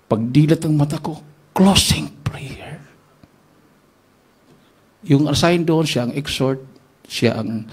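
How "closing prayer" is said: whispered in disbelief; a dazed hushed aside; stunned whisper. Retold or imitated. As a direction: breathe it out, shocked. Stunned at being given closing prayer.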